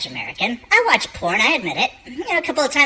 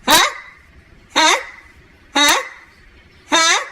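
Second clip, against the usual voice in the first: taunting huh; 7 semitones higher, slower than usual. Real, not acted. Repeated provoking questions.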